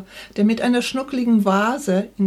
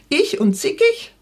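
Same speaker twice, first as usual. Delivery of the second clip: higher, a touch louder indignant retort; louder than intended; 9 semitones higher, 4 dB louder than usual. A narrator's reading. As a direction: let it burst out, indignant. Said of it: "Meine Stimme war lauter als gewollt". (empört und lauter als gewollt)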